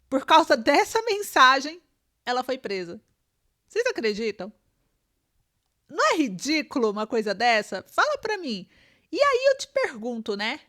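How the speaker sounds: emphatic, indignant outburst with big pitch swings; real exasperated incredulity; incredulous indignation. Real, not acted. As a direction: put it to the audience in disbelief. Indignant commentary on the jailing.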